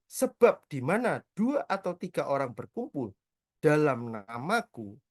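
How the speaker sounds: slow, measured reading of the verse; scripture reading. Acted. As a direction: read each word slowly like holy text. Reading the Bible verse aloud.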